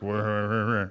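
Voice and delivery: low, soft wordless grumble; mock muttered griping, run together; muttering under breath. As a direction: imitate a sulky mumble under your breath. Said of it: "under our breath mutter like".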